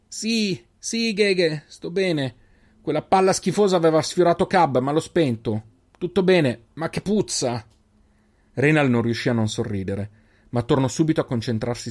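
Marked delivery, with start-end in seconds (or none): 0.1-7.7 higher, lightly voiced girl, relieved; a plucky girl shaking off a scare; young girl voice. A narrator's reading. Selin reassures Reynal in a higher girl voice.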